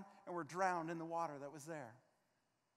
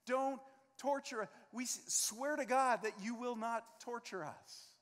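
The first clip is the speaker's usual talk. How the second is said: begging demons; 4 semitones higher, 4 dB louder than usual. Retold or imitated. Demons beg not be tortured.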